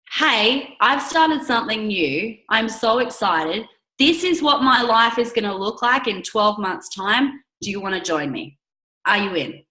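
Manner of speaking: confident, upbeat invitation; convinced and excited. Shown as a demonstration. To a prospect, inviting them to join with excited conviction. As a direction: sell it with conviction. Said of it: "the difference is that conviction".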